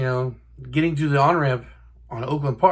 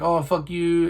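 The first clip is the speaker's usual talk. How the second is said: sarcastic jab; 3 semitones higher, slower than usual. Retold or imitated. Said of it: "He was very sarcastic".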